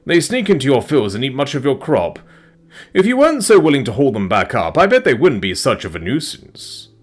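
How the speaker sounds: lady dragon gently scolding her friend. Acted. Dragon voiced in story.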